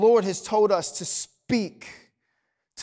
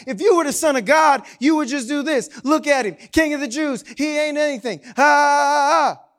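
mocking crowd; 4 semitones higher, 3 dB louder than usual. Crowd mocking Jesus on cross.

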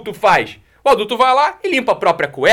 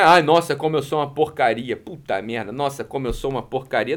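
mock self-pitying moan; 6 semitones lower, 5 dB quieter than usual. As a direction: lower and much softer, sinking into a mock moan.

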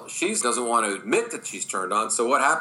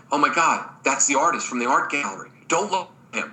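put-on higher, urgent girlfriend chatter; mock excited, pitched up; excited women whispering about a man; 4 semitones higher than usual. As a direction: play the flustered women spotting him. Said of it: "They're talking, and they go".

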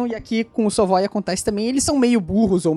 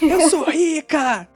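high, slow, laughing snob; spoiled rich girl; 8 semitones higher, much slower than usual. Retold or imitated. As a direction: drag it out like a snobby heiress.

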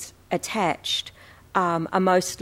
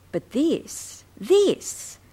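alarmed; 8 semitones higher, much slower than usual. Acted. Reading a girl's alarmed story.

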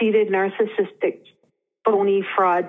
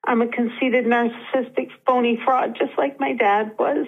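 near tears; 3 semitones higher than usual. Real, not acted. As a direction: voice rising, close to crying. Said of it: "She's starting to cry".

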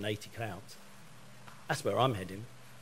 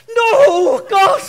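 much higher and louder, an exasperated cry; frustrated yell; 17 dB louder than usual. Retold or imitated. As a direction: let it all out while muted. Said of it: "mute myself and go".

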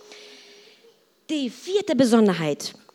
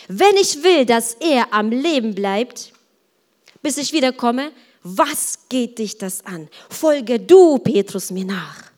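emphatic, slow-paced reading with loud peaks; stern acted answer; firm rebuke; 5 dB louder than usual. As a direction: put him in his place, punching key words. Jesus rebukes Peter, read aloud.

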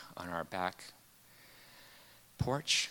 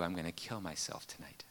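hushed retold threat; 5 semitones lower, 10 dB quieter than usual.

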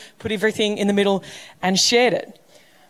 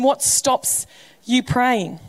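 slow emphasis; much slower than usual. Shown as a demonstration. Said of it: "question repeated for emphasis".

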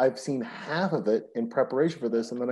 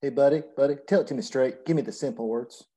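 put-on Southern accent. Podcast host playing a plain-talking Southern guy, in a light Southern accent. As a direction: slip into a folksy Southern accent, hamming it a little. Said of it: "I'm using a Southern accent".

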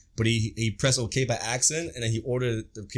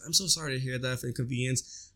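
softer, gentle apologetic rep; subtle soft voice; 5 dB quieter than usual. Retold or imitated. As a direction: hush it down like a kind agent. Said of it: "she was very subtle with her voice".

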